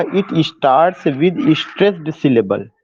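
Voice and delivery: very slow, word by word, for note-taking; slow dictation. Shown as a demonstration. Teacher dictating to students taking notes, very slow. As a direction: spell it out so students can write.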